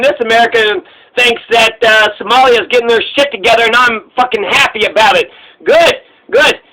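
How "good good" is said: excited approval. Real, not acted. Cheering Somalia's defiance.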